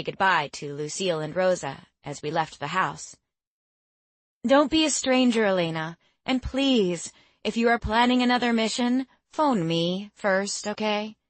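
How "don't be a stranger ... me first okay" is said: teasing. Acted. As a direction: tease her warmly like a mother. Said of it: "Lucille teased".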